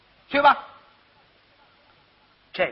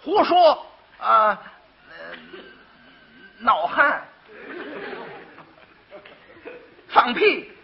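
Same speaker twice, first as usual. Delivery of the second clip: angry scolding; 3 semitones higher, slower than usual. Acted. Angry magistrate driving quack out.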